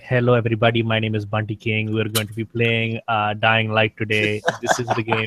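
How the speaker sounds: hint of a hammed-up Indian accent as a gaming host, unhurried; old fake Indian accent. Streamer redoes his old channel intro in a light Indian accent. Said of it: "I, like, talked like this".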